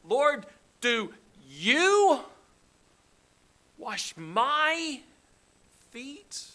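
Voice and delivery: high, slow, stunned question; shocked Peter. Acted. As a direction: gasp it out in disbelief. Peter shocked at foot washing.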